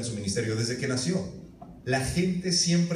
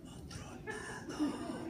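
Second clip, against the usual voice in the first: much higher, breathless, mocking, slow "otro lado"; mocking echo; 14 dB quieter, much slower than usual. Peter scoffing at the carpenter's order, breathless mocking echo. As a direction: mimic him with a scoffing hush.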